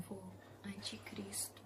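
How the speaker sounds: hushed whisper to grandpa; secretive whisper. Retold or imitated. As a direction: whisper it so mom can't hear. Whispering to grandpa so mom won't hear.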